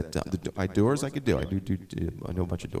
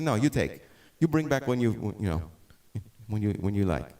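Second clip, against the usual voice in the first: higher, light imitation of a Spanish accent; 4 semitones higher than usual. Luthier offering the guitar, light Spanish accent imitation. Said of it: "But he had an accent".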